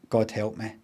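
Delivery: a soft muttered god help me; a hint of dread, said quietly; quiet, lightly hushed plea. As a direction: say it low, as if lost. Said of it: "And he said".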